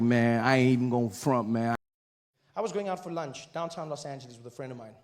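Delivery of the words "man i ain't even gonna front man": a hint of a lower, laid-back African American voice; African American accent. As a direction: African American guy opening up. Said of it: "He's like".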